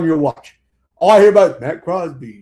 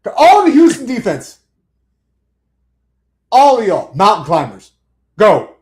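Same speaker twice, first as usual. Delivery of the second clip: coach barking orders; 4 dB louder than usual. Acted. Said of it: "talk like this at work".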